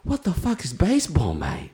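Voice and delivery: lightly put-on Aussie accent; a hint of Australian twang. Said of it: "with that Australian accent".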